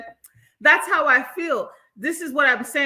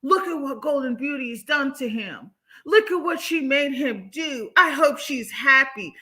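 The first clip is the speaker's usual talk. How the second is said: mocking quote; 3 semitones higher than usual. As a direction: sneer out the commenter's words like a taunt. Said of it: "This fool gonna say".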